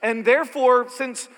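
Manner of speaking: full-force preaching. Real, not acted. Preacher building to a climax for the congregation, loud. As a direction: lean in and hammer it home.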